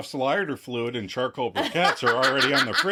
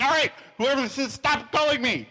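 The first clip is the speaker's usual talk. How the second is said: higher, fast panicked voice; rising panic on the phone; frightened higher plea; panicky; 13 semitones higher than usual. Retold or imitated. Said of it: "voice immediately rises into panic".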